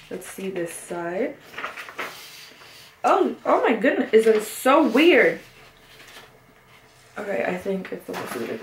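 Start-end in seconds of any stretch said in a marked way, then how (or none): 3.0-5.4 startled surprise. Real, not acted. Unboxing an album, surprised by the strange pages. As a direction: caught off guard by the layout. Reacting to odd album layout.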